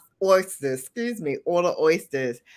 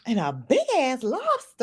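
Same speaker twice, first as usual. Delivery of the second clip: put-on teasing country-accent echo, slightly higher; mock country accent; 4 semitones higher than usual. Echoing the man's lobster order, mock country accent. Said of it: "she be clowning my country accent".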